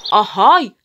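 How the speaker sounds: rising, very high, very loud screech; shrieking. A narrator's reading. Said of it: "یک دفعه جیغ کشید".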